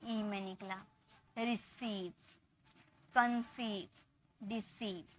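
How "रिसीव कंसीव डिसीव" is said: long ee held in the second syllable of रिसीव, कंसीव, डिसीव; drawn-out long vowel. Shown as a demonstration. Teacher modelling long-vowel words for students, रिसीव, कंसीव, डिसीव with stretched ee. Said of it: "थोड़ा टान कर इसको बोलेंगे".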